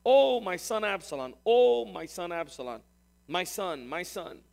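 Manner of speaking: crying out. Acted. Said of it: "kept crying".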